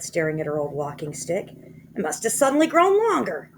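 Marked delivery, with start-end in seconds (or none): 1.5-3.5 Missus Twit voice. A narrator's reading. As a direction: drag it out in a high fretful voice. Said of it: "Missus Twit said".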